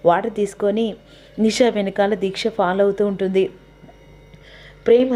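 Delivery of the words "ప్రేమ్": calling out a name with a rise; loud call. Acted. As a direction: call his name across the house. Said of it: "గట్టిగా పిలుస్తుండగా". (గట్టిగా పిలుపు)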